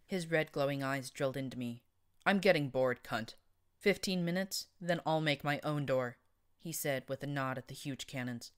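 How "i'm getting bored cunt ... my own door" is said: loud, bored menace; threatening brute. Acted. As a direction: growl out the ultimatum, louder. Cyborg threatening narrator.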